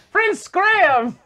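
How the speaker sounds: drawn-out falsetto owl call; very high, loud, slow hoot of a voice; owl from King's Quest. Acted. Owl hails the game's hero, slow loud falsetto. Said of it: "I talk like that owl from King's Quest".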